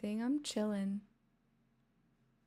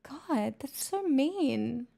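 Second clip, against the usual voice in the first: mock hurt; 4 semitones higher, 5 dB louder, much slower than usual.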